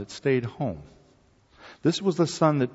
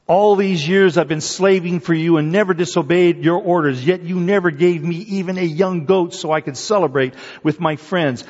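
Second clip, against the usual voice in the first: resentful complaint; 4 semitones higher, 4 dB louder than usual. Acted. Older son complains to father.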